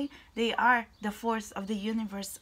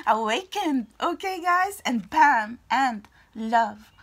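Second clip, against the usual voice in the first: excited; 9 dB louder, slower than usual. Real, not acted. Excited card reveal.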